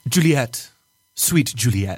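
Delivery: grand theatrical Shakespearean reading; hammy stage actor. Pretend. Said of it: "we have to get very Shakespearean".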